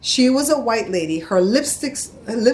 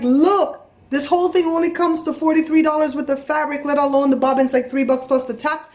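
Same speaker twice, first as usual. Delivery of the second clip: heated, higher-pitched retold argument; worked-up arguing; 6 semitones higher than usual. Customer disputing the total with supervisor, high and heated. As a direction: argue the total up high in your register. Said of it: "I was up at the top of my register".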